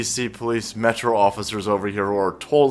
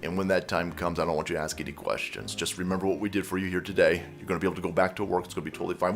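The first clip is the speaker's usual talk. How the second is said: low, soft, whispered mob boss voice; Italian mobster; 8 semitones lower, 8 dB quieter, faster than usual. Retold or imitated. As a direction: hush it like a godfather making an offer. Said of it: "got some Italian energy".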